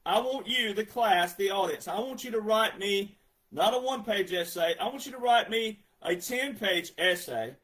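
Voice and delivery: a light take on a stern professor assigning work; lightly voiced professor giving homework; lecturing professor. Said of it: "This is what Professor Johnson would sound like".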